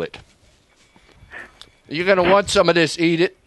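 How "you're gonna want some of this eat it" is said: higher, gruff sitcom grump; Archie Bunker. Shown as a demonstration. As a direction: bark it like a TV bigot dad. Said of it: "like Archie Bunker".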